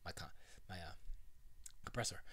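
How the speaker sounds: usual speaking voice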